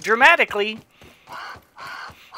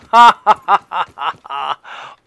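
laughing; 2 semitones lower, 7 dB louder than usual. Real, not acted. Laughing at game.

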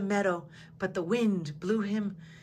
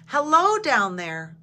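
higher, louder chirpy sparrow voice; cheerful sparrow calling down to a crying flower; chirping bird; 5 semitones higher, 7 dB louder, slower than usual. A narrator's reading. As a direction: chirp it out like a little bird, loud and high. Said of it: "Sparrow chirped".

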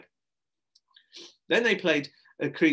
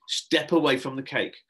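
louder commanding voice; stern order; 3 semitones higher, 6 dB louder than usual. Acted. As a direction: warn the child off. Adult orders boy from cake.

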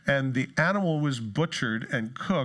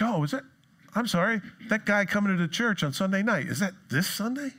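higher, mock-innocent questioning; feigned surprise; 5 semitones higher than usual. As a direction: pretend you had no idea. Acting out a forgetful invitee.

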